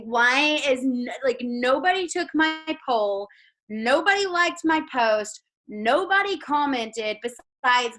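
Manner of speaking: slow, drawn-out woe-is-me complaint; lightly acted lament over being ignored; mock complaint. Voices her own discouraged inner complaint.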